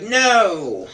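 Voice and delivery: starts as a very high, loud shouted no and fades down to normal; a coach's shouted refusal that winds down into repeated nos; mock coach hollering no, then trailing off; coach yelling no. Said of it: "And the coach is like".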